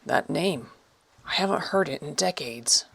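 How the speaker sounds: soft breathy whisper of disbelief. Acted. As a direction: barely breathe the words out. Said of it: "Finally, he whispered".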